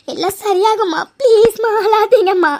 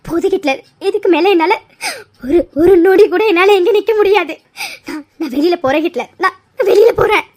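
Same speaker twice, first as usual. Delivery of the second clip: tearful, low voice; 3 semitones lower than usual. Acted. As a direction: say it as if about to cry. Breaking down, leaving the house.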